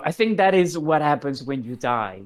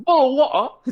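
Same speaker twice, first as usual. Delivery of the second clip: mock impression; 8 semitones higher, 8 dB louder than usual. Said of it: "let me do my best impression of that".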